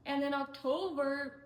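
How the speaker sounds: breathy whisper of the opening words; a whisper before she starts over. Real, not acted. Narrating her job story, she whispers the opening. Restarts the October part of story.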